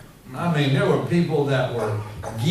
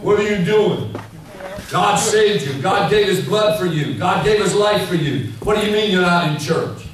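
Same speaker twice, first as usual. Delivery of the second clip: scolding mentor; 6 semitones higher than usual. Retold or imitated. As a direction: push the questions like a pushy big mentor. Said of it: "would come up and say".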